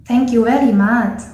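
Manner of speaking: 'very' with W for V in 'thank you very much'; Thai-style 'thank you very much', saying 'wery'; Thai accent. Shown as a demonstration. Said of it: "in Thai accent".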